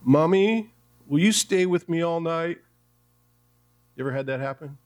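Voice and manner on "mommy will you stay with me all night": trembling voice. Acted. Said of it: "asked in a very trembling voice".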